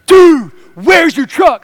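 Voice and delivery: loud, high, drawn-out mock alarm; hammed-up panicked neighbor, stretching the words; overdramatic. Neighbor at the door reporting a missing truck, overdramatic. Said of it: "with the most dramatic expression".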